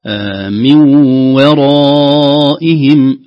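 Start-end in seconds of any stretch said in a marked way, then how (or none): 1.4-3.2 "ورائهم" very slow, a light waw before a heavy raa. Shown as a demonstration. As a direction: draw out "ورائهم" slowly, heavy raa only. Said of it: "المفخم هو الراء فقط". ("ورائهم" ببطء شديد وواو مرققة)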